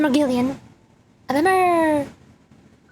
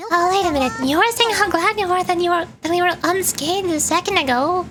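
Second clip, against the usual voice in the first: lightly voiced, higher indignant sidekick; protesting game sidekick; 4 semitones higher than usual. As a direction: object with a hint of indignation.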